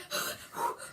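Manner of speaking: unvoiced frightened gasps; panicked gasping. Showing how she reacted after screaming, panicked gasps. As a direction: gulp air in fright.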